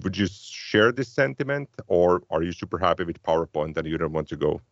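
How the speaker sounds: ordinary talk, nothing marked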